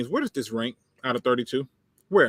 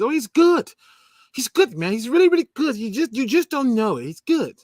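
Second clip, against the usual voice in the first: higher, louder mock gushing; sarcastic praise; 9 semitones higher, 4 dB louder than usual. Host mocking fans who rate Kaminsky, sarcastic gushing. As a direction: oversell it so nobody believes it.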